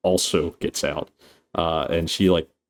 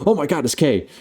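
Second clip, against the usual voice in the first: high-pitched acted alarm; mock startled cry; 8 semitones higher, faster than usual. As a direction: blurt it in imitated shock. Acting group's shock at seeing Kay.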